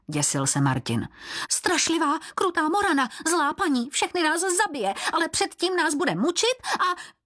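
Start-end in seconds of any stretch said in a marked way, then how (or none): 1.5-7.2 high squeaky creature voice, defensive; a cringing servant objecting to the keeper; reproachful Běloran. Acted. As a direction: protest in a thin high squeal, rushing the last line. Frightened servant describes Morana.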